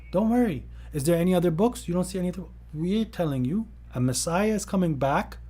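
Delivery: high-pitched, pushy reassurance; mock persuading. Voicing persuaders answering doubters.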